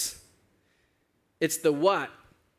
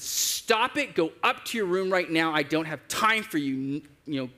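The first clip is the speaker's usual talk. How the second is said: retold angry yell; 2 semitones higher than usual. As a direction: re-enact scolding a child, pitch falling as it goes. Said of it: "I just yelled at her".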